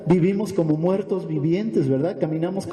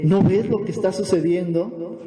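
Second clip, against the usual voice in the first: acted string of incredulous questions; mildly indignant questioning; 2 semitones higher than usual. Sufferers challenging the prophet's faith, mildly indignant. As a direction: press the mock complaint question after question. Voices people objecting to the prophet.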